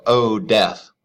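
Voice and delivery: a touch of dramatic address to death; mock apostrophe. Shown as a demonstration. Teacher showing apostrophe by addressing death, lightly dramatic. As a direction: call out to death, lightly declaimed. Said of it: "So if I go".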